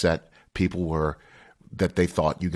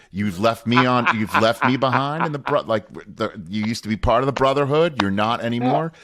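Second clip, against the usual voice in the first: slightly raised, playful reproach; mock accusation; 3 semitones higher, 3 dB louder than usual. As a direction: accuse a friend of betrayal, half in jest. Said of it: "I've accused Deion Sanders".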